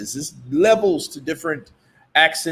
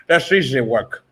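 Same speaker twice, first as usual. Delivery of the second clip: put-on a light Cuban gangster accent, Tony Montana style; mock Scarface accent. A boxer teased in a mock Scarface accent. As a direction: tease him with a hint of Scarface. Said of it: "That's Scarface".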